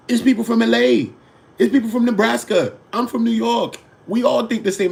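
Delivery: high, loud worked-up rant; heated rant. Real, not acted. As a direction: hammer every line up high and loud. Heated rant, rising indignation.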